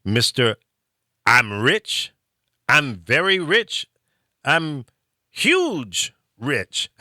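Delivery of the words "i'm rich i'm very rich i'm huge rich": lightly voiced boastful tycoon; a hint of Trump bragging; Trump impression. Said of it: "So, Mister Trump".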